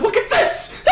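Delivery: very high, loud squeal through laughter; real helpless hilarity; laughing shout. Real, not acted. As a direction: shriek it while cracking up. Cracking up at the T-pose.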